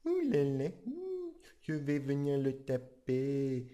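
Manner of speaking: lightly voiced angry dad, slow; a half-hearted threat without the face; mild mock threat; flat Homer attempt. Shown as a demonstration. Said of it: "ça marche pas du tout".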